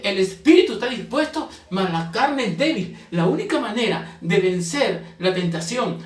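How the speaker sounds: forceful preacher, stressing key words; preaching. Real, not acted. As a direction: drive each point home to the congregation.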